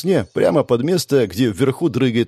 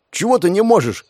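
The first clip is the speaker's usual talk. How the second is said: shout; 9 semitones higher than usual. Acted. Hanging on the rope, the ratnik shouts at Lucille, annoyed. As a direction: yell up the rope at her. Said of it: "крикнул ратник".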